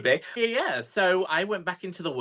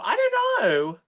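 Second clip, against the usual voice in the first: laughing; 6 semitones higher, 4 dB louder than usual. Real, not acted. Guest laughs at joke about perfection.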